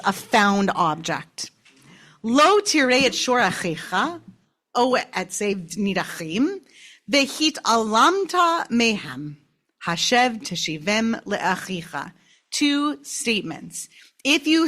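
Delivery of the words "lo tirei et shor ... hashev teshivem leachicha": scripture reading. Acted. Reads the Torah verse aloud.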